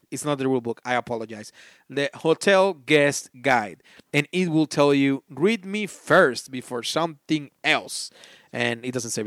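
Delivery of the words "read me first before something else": dramatic reading. Pretend. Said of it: "but I made it".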